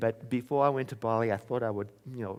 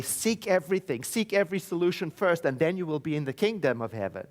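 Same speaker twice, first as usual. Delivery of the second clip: mock misquote; 5 semitones higher, 3 dB louder than usual. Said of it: "It doesn't say".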